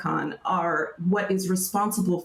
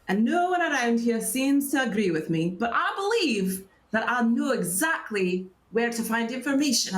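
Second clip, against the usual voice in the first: eccentric researcher, lightly played; lightly voiced scholar. Scholar explains an errand to adventurers, lightly voiced character. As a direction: lightly act a scholar pitching her pet theory. Game master plays scholar Danica.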